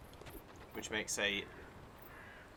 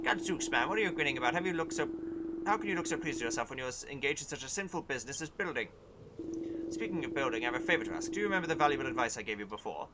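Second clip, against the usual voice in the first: gruff soldier voice; 4 semitones higher, 5 dB louder than usual. Acted. Reads grumpy soldier dialogue.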